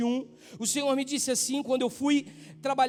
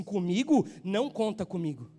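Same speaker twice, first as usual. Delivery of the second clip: dismissive friend; 5 semitones lower than usual. Retold or imitated. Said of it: "Ele olhou pra minha cara e disse assim".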